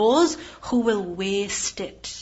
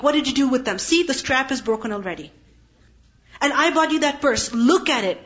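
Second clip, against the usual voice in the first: mother nagging daughter about wasted purchases, mildly raised voice; scolding mother; 2 semitones higher than usual. Retold or imitated. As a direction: tick off every ruined item in mock exasperation.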